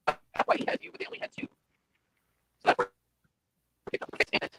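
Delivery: garbled robotic connection; broken-up digital voice. Real, not acted. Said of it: "it's robotic for me too".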